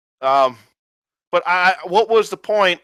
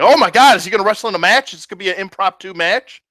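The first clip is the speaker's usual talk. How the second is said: excited; 4 semitones higher, 4 dB louder, faster than usual. Retold or imitated. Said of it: "I'm like".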